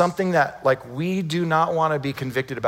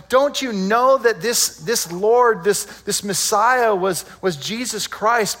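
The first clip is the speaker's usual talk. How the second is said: raised, drawn-out urgent question; imitated shouted preaching; 5 semitones higher, slower than usual. Peter telling the crowd who the Messiah was, shouting. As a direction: press the point on a big crowd, high and slow. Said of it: "And Peter's just shouting this".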